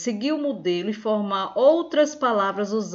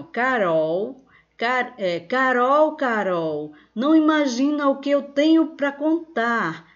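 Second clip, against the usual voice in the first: raised, excited call to a friend; coleguinha calling out; 4 semitones higher, 3 dB louder than usual. Acted. Girl calling her friend Carol with news to tell, calling out. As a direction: call her name, then tease some big news. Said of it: "a coleguinha está chamando Carol".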